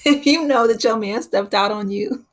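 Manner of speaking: laughing through the quoted line; amused, voice lifted with laughter. Real, not acted. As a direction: crack up while delivering the saying. Laughs while quoting a saying.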